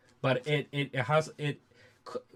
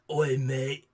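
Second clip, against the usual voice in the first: lightly voiced British geezer; old geezer accent; 4 dB louder than usual. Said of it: "my old geezer accent".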